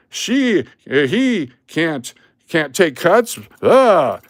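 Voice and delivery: high-pitched, stammering mock outrage; indignant complaint. Man in line objecting to cuts, indignant. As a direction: imitate a sputtering, outraged customer. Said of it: "starts complaining".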